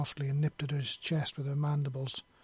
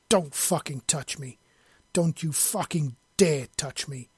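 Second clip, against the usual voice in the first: a mild snarled threat, a touch louder; menacing snarl; 4 dB louder than usual. Acted. Man recoiling from her grabbing his arm, menacing snarl. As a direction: warn her off, voice low-key but menacing. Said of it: "he snarled in a voice so deep and menacing".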